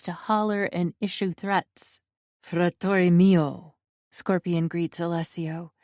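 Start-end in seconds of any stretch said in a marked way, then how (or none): 2.4-3.8 slow, drawn-out cheerful greeting; grinning greeting. A narrator's reading. Scorpion greeting his brother, grinning and slow. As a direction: greet him with a carefree grin. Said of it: "grinning like he doesn't have a care".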